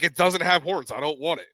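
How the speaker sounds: high, protesting retold kid; stubborn mock protest; arguing back. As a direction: start high and loud, then ease off. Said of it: "we sat there and argued".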